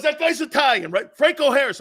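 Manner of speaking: high, loud retold amazement; excited grandfather. Grandfather asking grandson about Franco, excited disbelief. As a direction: check it, barely believing it. Grandfather double-checks the news.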